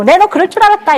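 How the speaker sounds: a touch of a scornful parent; lightly voiced nagging reproach; mock told-you-so. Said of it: "이렇게 하지 마시고".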